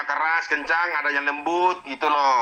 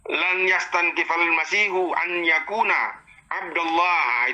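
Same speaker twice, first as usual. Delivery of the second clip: very slow, chanted Arabic verse; Quranic recitation; much slower than usual. Shown as a demonstration. Ustaz rereading the verse to prove his point, slow chant. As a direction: stretch each word of the verse out.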